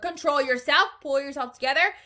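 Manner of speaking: high, loud, firm orders; scolding. A narrator's reading. Wonka reins in the laughing Oompa Loompa, scolding. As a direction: tell someone off briskly.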